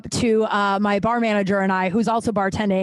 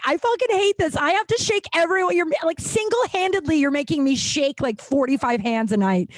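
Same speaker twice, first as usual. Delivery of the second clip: mad rant; 5 semitones higher than usual. Retold or imitated. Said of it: "I got really mad at the owner".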